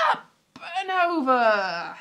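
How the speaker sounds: slow, lifted "Up and over"; a performer's line, drawn out. Retold or imitated. Quoting a performer to viewers, slow and lifted. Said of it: "very Max Boycey".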